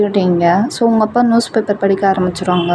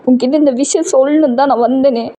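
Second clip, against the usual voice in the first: tearful pleading; 3 semitones higher than usual. Acted. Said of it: "அழுதுட்டே சொல்றீங்க".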